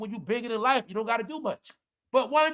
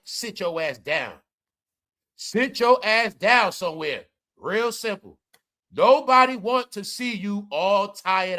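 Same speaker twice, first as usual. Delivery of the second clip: slow, deliberate reading; slower than usual. Shown as a demonstration. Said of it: "Let me read it again".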